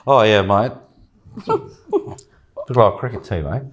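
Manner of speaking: put-on a light Australian accent, laughing. Asked by a friend, mocks the woman in an Australian accent. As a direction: put on an Aussie twang for a laugh. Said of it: "say what she said in an Australian accent".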